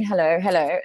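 lightly voiced royal greeting, a mild hint of the Queen; breezy regal hello, only lightly put on. Floating past the band like the Queen, mild regal greeting. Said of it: "a little bit like the Queen".

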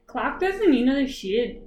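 imitated New Zealand vowels, SHED said as "shid"; amused New Zealand accent impression. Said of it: "I just heard an interview with the Prime Minister".

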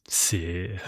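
whispered "C'est". Real, not acted. Podcaster ashamed of self-sponsoring, whispered aside. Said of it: "humiliant au plus haut point".

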